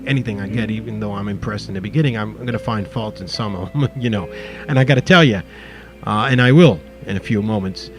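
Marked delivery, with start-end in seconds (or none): 4.7-7.9 town crier. Real, not acted. Loud shout-out with phone number.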